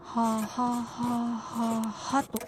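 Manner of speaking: very slow, spelling it as she writes; slow read-back while writing; drawn-out writing murmur. Real, not acted. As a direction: stretch it out syllable by syllable. Wife writes the laugh out.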